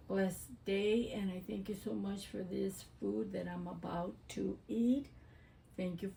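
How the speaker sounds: quiet, quick mealtime prayer. Real, not acted. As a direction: say grace softly and fast. Says grace before eating.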